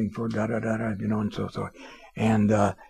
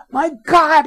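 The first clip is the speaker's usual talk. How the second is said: very high, loud, slow amazement; amazed boss; 11 dB louder than usual. Retold or imitated. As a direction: stretch every word in disbelief. Owner raves about call volume.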